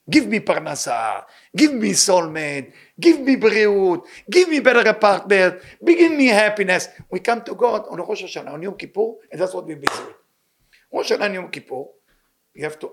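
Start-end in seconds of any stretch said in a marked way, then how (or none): 0.1-6.9 slow, insistent begging, growing louder; mock demanding prayer. Rabbi imitating people begging God for things, demanding. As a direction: demand it like a greedy worshipper.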